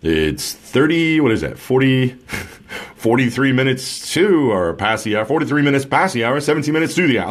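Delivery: a hint of a stuffy morning-show host reading the clock; mild mock DJ patter, stumbling over minutes past the hour; imitating old radio DJ. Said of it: "Like, who talks like that?".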